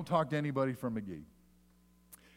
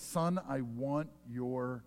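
tender plea; much slower than usual. Retold or imitated. Preacher voicing Proverbs to his son, slow and tender. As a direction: draw out heart gently. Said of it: "that's what Proverbs says".

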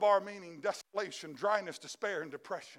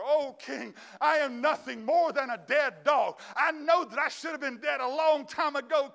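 loud begging; 5 semitones higher, 4 dB louder than usual. Acted. Crippled man begging the king for his life, louder. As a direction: beg the king at full voice. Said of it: "starts begging for his life".

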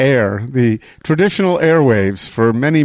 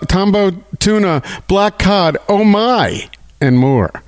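excited ad read. Acted. Sponsor seafood sale list.

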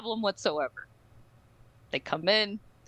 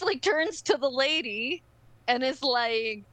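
usual speaking voice

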